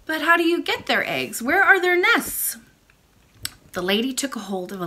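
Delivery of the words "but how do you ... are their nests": high, bright little princess voice; excited young princess; cartoon princess. Princess questions the old lady.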